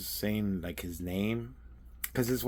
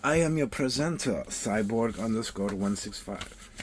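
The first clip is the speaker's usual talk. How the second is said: put-on old speech synthesizer; 5 semitones higher, 9 dB louder than usual. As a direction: boom it out like a cyborg host. Sci-fi presenter intro as cyborg.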